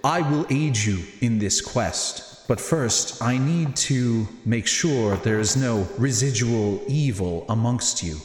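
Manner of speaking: slow, measured, solemn pronouncement; unhurried character voice with weighty pauses; Natius. Acted. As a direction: speak slowly and deliberately, like a grave quest-giver. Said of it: "He looks back at you and says".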